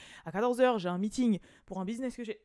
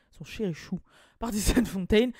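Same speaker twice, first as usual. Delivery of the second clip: laughing; 5 dB louder than usual. Real, not acted. Repeats pet name, laughing.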